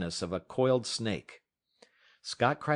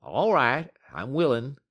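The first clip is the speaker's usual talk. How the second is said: louder grudging agreement; concede, a bit raised; giving in; 4 semitones higher, 6 dB louder than usual. Acted. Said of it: "Matt agreed".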